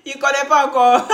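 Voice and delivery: amused, laughing. Real, not acted. Talking between two laughing fits.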